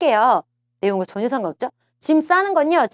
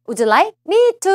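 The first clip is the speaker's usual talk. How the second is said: slow stressed demo; 8 semitones higher, 4 dB louder, much slower than usual. Shown as a demonstration. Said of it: "앞에 뭐라고 나왔어요?".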